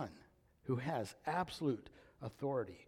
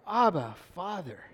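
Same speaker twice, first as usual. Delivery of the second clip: mild cry, louder then falling away; 5 semitones higher, 7 dB louder than usual. Retold or imitated. Spirit crying to the Father in our hearts, mild cry. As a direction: lift Abba like a call, soften Father.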